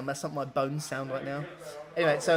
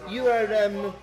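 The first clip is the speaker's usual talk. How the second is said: put-on halting, louder Eastern European accent; 5 semitones higher, 4 dB louder than usual. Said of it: "default Eastern European accent".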